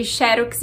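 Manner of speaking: "xerox" stressed on XE, the first syllable. Shown as a demonstration. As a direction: put the accent at the start of "xerox". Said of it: "pra dizer xerox, a gente precisa colocar o acento na primeira sílaba". ("xerox" paroxítona, XÉ-rox)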